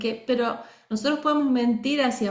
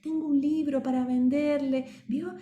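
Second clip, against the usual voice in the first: meek, hesitant seller asking permission, softer and higher at the end; apologetic salesman; 4 semitones higher, 4 dB quieter than usual. Shown as a demonstration. Teacher demoing an unsure salesman to her class, meek and apologetic. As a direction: sound like you're begging pardon for the price. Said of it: "otro que pide disculpas".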